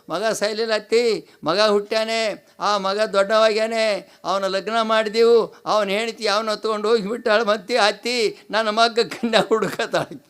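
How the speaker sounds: half-hearted keening, phrase by phrase; retold mourning chant for a mother-in-law; mock lament. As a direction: imitate a daughter-in-law's funeral wail. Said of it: "ಮೊನ್ನೆ ಒಬ್ಬಾಕಿ ಹೆಣ್ಮಗಳು ಅತ್ತಳ್ರಿ".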